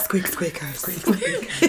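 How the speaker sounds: mock squeak. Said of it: "always in that voice".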